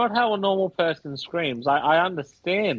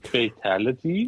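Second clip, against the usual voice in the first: hesitant questioning rise at the end; tentative mock game call; uncertain. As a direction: imitate a line said as an unsure question. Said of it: "Sounds so uncertain about that".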